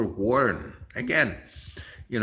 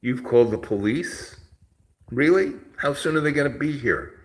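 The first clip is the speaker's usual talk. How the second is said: mocking disbelief; 3 semitones higher, 5 dB louder than usual. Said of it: "I said".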